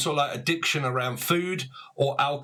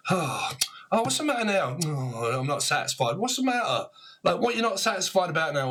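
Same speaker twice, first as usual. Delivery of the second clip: exasperated; 3 semitones higher than usual. Acted. Tutting person complaining, acted quarrel.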